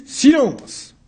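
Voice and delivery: loud, high command in another voice; shouted order. Acted. Judge silencing the accused, loud shout. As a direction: cut him off sharply. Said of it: "J'ai dit".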